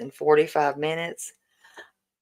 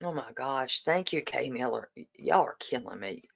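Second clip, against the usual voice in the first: moved to tears; 8 dB quieter than usual. Real, not acted. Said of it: "Y'all want me to cry".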